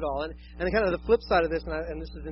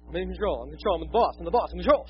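mock control freak; faster than usual. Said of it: "this isn't an issue with me".

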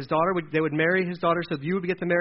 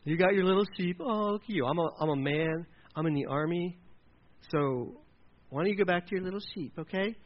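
belittling, softer toward the end; demeaning; 5 dB quieter than usual. Acted. Older brother belittling the young shepherd, condescending. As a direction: talk down to a little kid. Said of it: "So he's demeaning him".

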